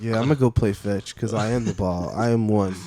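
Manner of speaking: low, mellow stoner voice; zoned-out dog musing dreamily; stoned golden retriever. Acted. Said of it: "they're fucking stoned out of their minds".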